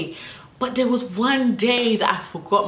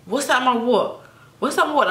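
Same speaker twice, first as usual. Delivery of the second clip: higher fake confused huh; playing dumb; 4 semitones higher than usual. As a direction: act innocent and clueless. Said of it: "I was like".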